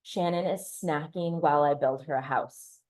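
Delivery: measured, weighted repeat of dad's remark; understated, alarming retelling. Retold or imitated. Daughter replays dad's words with alarm bells ringing, measured and weighted. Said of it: "Alarm bells were going off in my head".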